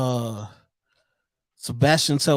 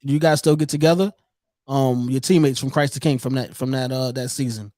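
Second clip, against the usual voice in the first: glitchy jumping pitch; 2 semitones lower than usual. Real, not acted. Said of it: "You sound like a robot again".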